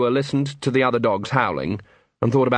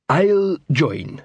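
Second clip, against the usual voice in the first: higher, lightly voiced troll; reluctant troll; 5 semitones higher than usual. A narrator's reading. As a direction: give in as a dim troll. Cowed troll agrees to enlist.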